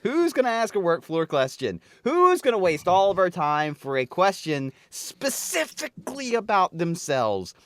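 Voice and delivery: rising mock-annoyed rant; mounting inner exasperation. Staffer dreading questions in a meeting, mounting exasperation. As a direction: build the annoyance with each question. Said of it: "I just sit there in my head".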